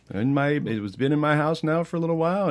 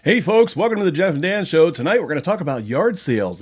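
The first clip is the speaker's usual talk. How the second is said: show host intro; 6 semitones higher, 4 dB louder than usual. Acted.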